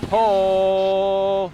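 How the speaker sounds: a real victory yell, high and loud; excited shout. Real, not acted. Wins pole in racing game.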